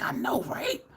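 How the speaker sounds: whispered, conspiratorial agreement. Retold or imitated. Telling her mom about the food, in a whisper. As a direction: lean in and whisper it. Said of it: "I'm like".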